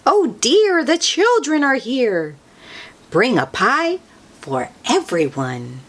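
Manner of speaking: a hint of a fussing grandmother calling out. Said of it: "she will say".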